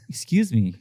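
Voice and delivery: low, slow, breathy mock seductive; sexy voice. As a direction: purr it out like a flirt. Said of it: "she made her voice sexy".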